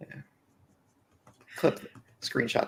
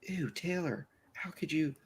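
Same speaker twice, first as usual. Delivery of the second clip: mock disgusted coworker; 4 semitones higher, 9 dB quieter, slower than usual. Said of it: "there was a stigma where it's like".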